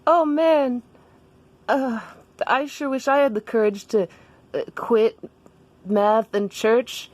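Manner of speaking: high, wistful character voice; Daniel. Acted. Daniel envies Jessica's courage, high and hesitant. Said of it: "And Daniel's like".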